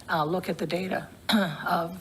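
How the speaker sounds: losing her voice, a bit rough; hoarse voice. Real, not acted. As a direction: voice going hoarse. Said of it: "I don't know why I'm losing my voice".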